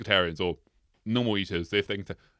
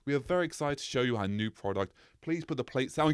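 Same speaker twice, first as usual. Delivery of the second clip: mock taste-test host; 5 dB quieter than usual. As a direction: welcome guests like a smooth presenter. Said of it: "I'd love to be something like".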